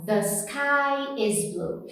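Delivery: slow, careful "The sky is blue"; English th demo. Shown as a demonstration. Teacher modeling a slow English sentence for students. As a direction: spell out each sound of "The sky is blue" slowly. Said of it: "Dicas que eu dei pra você em relação a esse T H".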